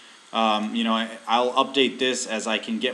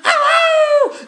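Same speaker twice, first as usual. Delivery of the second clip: hissing in pain; 11 dB louder than usual. Real, not acted. Pet biting again, yelping.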